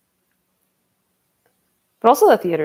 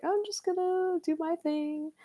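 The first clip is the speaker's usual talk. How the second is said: mock nonchalant; 11 semitones higher, 9 dB quieter than usual.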